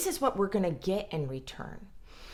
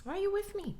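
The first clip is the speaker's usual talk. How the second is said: defensive partner; 13 semitones higher, 4 dB quieter, much faster than usual. Retold or imitated. Voicing partner's defensive retort.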